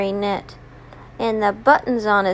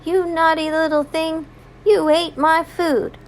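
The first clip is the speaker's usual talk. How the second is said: higher-pitched, mild storybook scolding; mock yelling; 4 semitones higher than usual. Mister McGregor chasing Peter Rabbit out, mild mock yell. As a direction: yell it lightly, as for small children. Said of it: "he was yelling at him".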